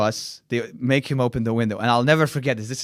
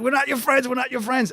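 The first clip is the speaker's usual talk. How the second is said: mock yell back; 11 semitones higher than usual. Shouting back while fleeing.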